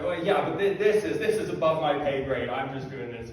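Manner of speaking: puffing himself up to sound firm; trying to sound forceful. Retold or imitated. To a forceful woman at church, mildly forceful. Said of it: "You can tell I'm trying to put on this forceful voice".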